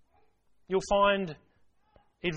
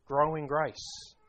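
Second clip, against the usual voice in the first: slow, deliberate; much slower than usual. Shown as a demonstration. Preacher repeating Peter's words to the congregation, slowly. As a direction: Grow in grace drawn out slowly, each word weighed. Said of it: "It's a process".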